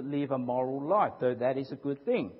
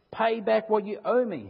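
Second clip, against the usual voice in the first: louder, higher harsh demand for payment; 5 semitones higher, 5 dB louder than usual. Acted. Servant choking his fellow servant, demanding his money, loud and high. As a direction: bark the demand at him. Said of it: "he demanded".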